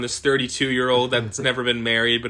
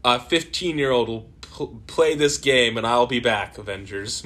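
sneering panto villain; 3 semitones higher, slower than usual. Pretend. Doing Ultron voice, slow.

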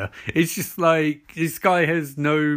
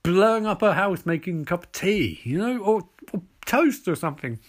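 incredulous mock outrage; 4 semitones higher than usual. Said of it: "I'm like".

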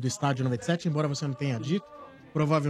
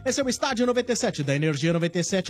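fast, high-pitched radio announcer read, building to a called-out catchphrase; punchy promo read climbing into the final call; sponsor read; 5 semitones higher than usual. Acted. Host selling the show's sponsored segment to listeners, announcer read.

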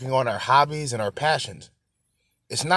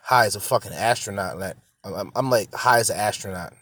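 stoner; 4 semitones lower than usual. Real, not acted. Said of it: "I'm smoking this fucking blunt".

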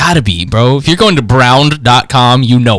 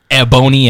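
Ebony pronounced with "bone" standing out; stress on BONE in Ebony. Shown as a demonstration. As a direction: lean on the middle of Ebony, e-BONE-y. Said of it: "requires too much emphasis on that word".

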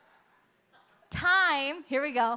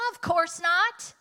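emphatic denial; 5 semitones higher, 5 dB louder, slower than usual. Retold or imitated. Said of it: "In, in my heart version".

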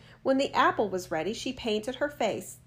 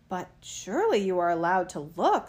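put-on sly old woman; 2 semitones lower than usual. A narrator's reading. Disguised queen coaxing Snow White.

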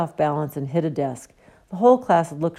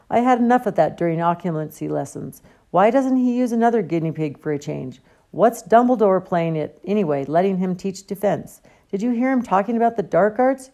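angry rant; 4 semitones higher, 3 dB louder than usual. Acted.

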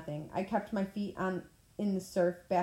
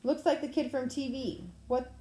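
gruff cop; 5 semitones higher than usual. A narrator's reading. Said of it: "A gruff cop voice".

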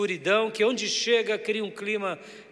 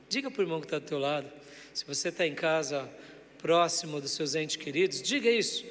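usual speaking voice

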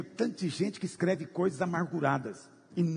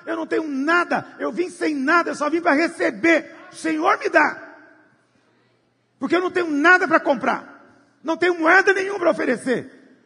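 loud, higher, pleading confession to the Lord; a sinner shouting his surrender; humble believer; 10 semitones higher, 7 dB louder than usual. Acted. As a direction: cry it out high with nothing in your hands. Humble believer speaking to God.

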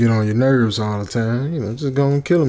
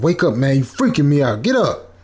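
scared scream; 4 semitones higher than usual. Retold or imitated. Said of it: "I screamed this time ... sounding scared".

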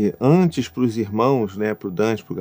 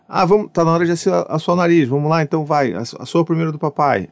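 playful parent voice; 5 semitones higher than usual. Acted. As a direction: coax a toddler into playing. Playful nose-blowing game with child.

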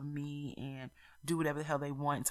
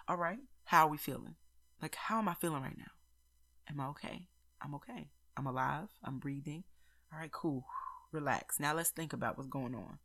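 soft, softer and softer self-reassurance; calming self-talk; 2 semitones lower, 4 dB quieter than usual. Retold or imitated. To herself when upset, a soft reassuring check-in. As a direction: talk yourself down gently, breath by breath.

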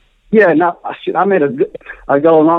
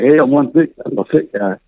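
bragging; 3 semitones lower than usual. Retold or imitated. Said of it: "It's not like I'm trying to brag".

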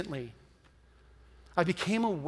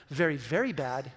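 lightly put-on, lower disapproving voice; impersonating somebody judgmental; 5 semitones lower than usual. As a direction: repeat the mock verdict lower. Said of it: "my best impersonation of somebody".

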